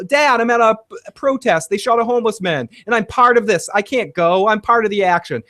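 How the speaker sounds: put-on high, whiny teenage voice; lightly voiced teen son; mock teen son. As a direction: play the clueless teen son answering his dad.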